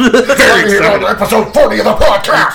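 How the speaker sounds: wrestling promo voice. Pretend. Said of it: "an eighties wrestling promo".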